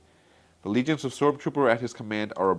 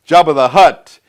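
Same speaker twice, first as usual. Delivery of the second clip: Jabba the Hutt voice; 7 semitones higher, 20 dB louder than usual. Retold or imitated. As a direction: rumble it out like a giant crime lord. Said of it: "I have a good Jabba the Hutt impersonation".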